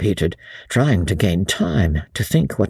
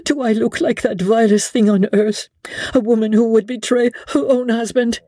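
higher, pleading lady's voice; desperate plea; 11 semitones higher than usual. A narrator's reading. Lady Blakeney begging Sir Andrew to trust her, desperate and higher. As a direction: beg him to believe her.

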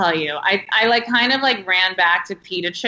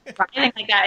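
nasty tone. Retold or imitated. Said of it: "like, a nasty".

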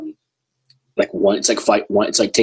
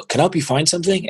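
much higher, bright retail greeting; store clerk voice; 9 semitones higher, faster than usual. Retold or imitated. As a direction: sing it out to every shopper. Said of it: "You had to go".

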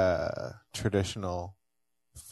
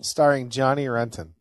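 movie trailer announcer; 4 semitones higher, 6 dB louder than usual. Pretend.

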